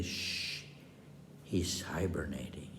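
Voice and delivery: hushed unvoiced whisper. Innkeeper hushing hunters by the sleeping husband, whispering. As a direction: whisper so the sleeper won't wake. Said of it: "she'd say".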